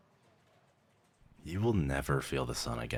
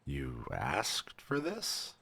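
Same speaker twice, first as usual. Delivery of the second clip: incredulous; much slower than usual. Acted. Clerk digests the voluntary turning.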